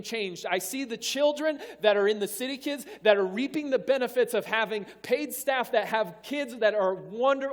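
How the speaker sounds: emphatic, driving sermon delivery; speaking out a king's resolve to the congregation; impassioned preaching. Real, not acted. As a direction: preach it with rising conviction. Preaches at full force.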